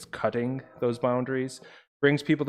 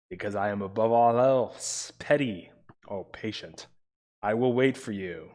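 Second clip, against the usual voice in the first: dramatic poem reading. Acted. Streamer rereading the last stanza to chat, theatrical recitation. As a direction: recite it theatrically, with amused breaks. Reads the poem's stanza aloud.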